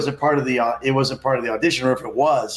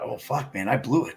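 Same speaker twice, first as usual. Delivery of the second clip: muttered inner dismay, much softer; 3 semitones lower, 6 dB quieter than usual. Retold or imitated. Actor thinking he blew the audition, muttered. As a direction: say it under your breath, deflated. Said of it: "And I thought".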